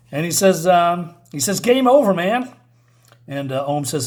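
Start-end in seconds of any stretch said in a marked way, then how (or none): 1.6-2.5 mock hero taunt.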